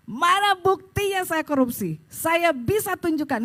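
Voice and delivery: retold defiant challenge to accusers; indignant challenge. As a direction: demand proof, indignantly acting it out. Defends self against corruption charge.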